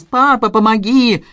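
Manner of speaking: high, drawn-out plea; mock a son's wailing appeal; mimicked cry for help. A narrator's reading. Father throwing his son's old pleas back, mimicked crying out. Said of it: "Ты только прибегал ко мне и кричал".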